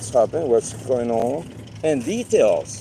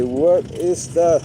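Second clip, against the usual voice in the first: drawn-out, higher puzzled "What is that?"; slow, raised, mock-puzzled "What is that?"; puzzled question; 5 semitones higher, 4 dB louder, much slower than usual. Imagining a viewer puzzled by his Sunday tip, drawn-out "What is that?". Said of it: "And then you can say".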